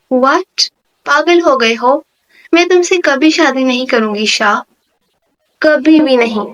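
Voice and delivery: understated mock yell of refusal; shouting. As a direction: push back harder on the last words. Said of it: "پھر سے چیخی تھی".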